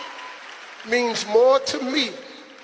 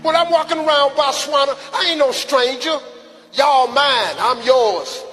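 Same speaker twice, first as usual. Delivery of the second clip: passionate shout; 4 semitones higher, 3 dB louder than usual. Real, not acted. Passionate address to Africans.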